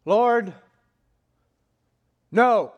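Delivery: loud, high protest to the Lord; emphatic refusal. Acted. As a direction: refuse forcefully, each word separate. Peter refuses God.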